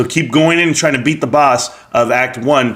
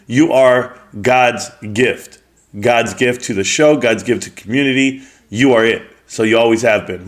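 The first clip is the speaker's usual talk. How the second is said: sarcastic praise; 4 semitones lower than usual. Real, not acted. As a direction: lay it on thick, so no one believes it. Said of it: "Do you not hear the sarcasm in my voice?".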